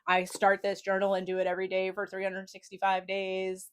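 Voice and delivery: flat, even robot voice; deadpan machine monotone. Pretend. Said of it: "That's my robot voice".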